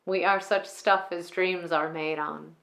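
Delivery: a magician gently consoling her new son-in-law as the revels end; Prospera's monologue. Acted. Performs Prospera's Tempest monologue.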